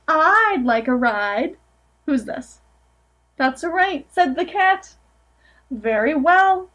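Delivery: gentle storybook reading aloud; picture-book narration, lightly sing-song; reading to children. Acted. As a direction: read it to a room of small kids.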